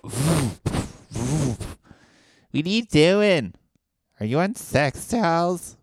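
loud, high, drawn-out shock; shocked disbelief. Acted. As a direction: gawk at him in loud disbelief. Partygoers spotting man on dolls.

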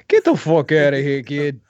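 lightly hammed-up tough guy; mock bad-actor brush-off; imitating Sal. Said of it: "let's look at Sal's acting talent".

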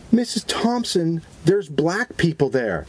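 lightly voiced kid calling to teacher, slow; a hint of a worried pupil; alarmed schoolkid. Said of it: "a kid raising his hand".

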